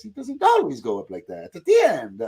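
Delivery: lighter mock Italian old toymaker; Geppetto. Shown as a demonstration. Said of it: "Geppetto is like this".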